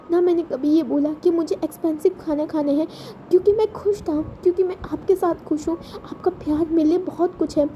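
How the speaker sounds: put-on a child begging not to be left; lightly voiced tearful boy; pleading child. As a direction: plead with him as if your life hangs on it. Ayuan begs Wing to stay.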